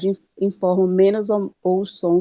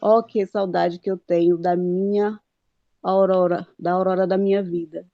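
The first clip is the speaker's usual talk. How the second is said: reading the verse with its metre; poem recitation. Shown as a demonstration. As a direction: recite the redondilha line. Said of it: "Eu vou citar aqui um pouquinho". (declamando o poema)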